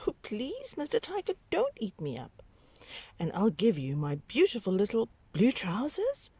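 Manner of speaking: put-on child's voice, high and begging; high pleading child. Babaji begs the tiger for his life, high and pleading. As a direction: beg the tiger to spare you.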